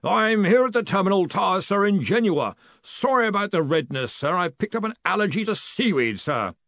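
high, apologetic character voice; meek distant underling. A narrator's reading. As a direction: report apologetically to your superior.

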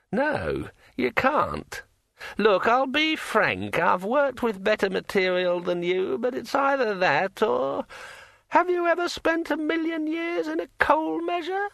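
high, slow, eerie ringing voice; like a finger round a wine glass rim; ringing metallic sword voice. A narrator's reading. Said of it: "in a voice like the sound of a finger dragged".

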